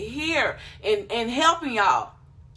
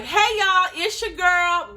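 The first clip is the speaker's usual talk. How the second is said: higher, louder, slow upbeat greeting; confident intro; 5 semitones higher, 3 dB louder, slower than usual. Shown as a demonstration. Showing viewers a confident intro, upbeat and louder. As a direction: pop it like a confident host. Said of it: "Be confident, be popping".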